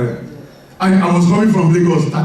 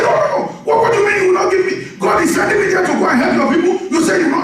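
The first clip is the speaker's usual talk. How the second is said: high, rapid-fire retold outrage; indignant protest; 10 semitones higher, faster than usual. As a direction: argue back fast, pitched way up. Retold heated argument over being refused.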